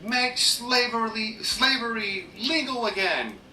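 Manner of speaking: high, slow, drawn-out slogan chant; mock slogan. Commentator voicing an imagined Trump slogan, high and drawn-out mockery. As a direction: draw it out high like a mocking campaign slogan.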